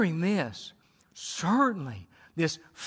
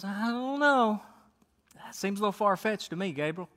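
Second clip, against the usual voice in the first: put-on doubtful old man. Zechariah doubting the angel.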